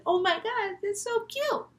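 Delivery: high, rising gushy squeal; girlish, high-pitched texting gush; gushing girl reply. Acted. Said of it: "she responds with".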